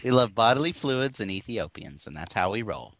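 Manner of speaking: lightly voiced charity-ad sign-off, dropping low and quiet; a faint mock Sally Struthers wrapping up; Sally Struthers impression. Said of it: "what voice would suit this would actually be, like, uh, Sally Struthers".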